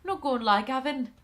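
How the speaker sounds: light comic Welsh lilt; Welsh accent. Acted. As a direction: play it as a sitcom Welsh accent. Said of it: "my attempt at a Welsh accent, like Gavin and Stacey".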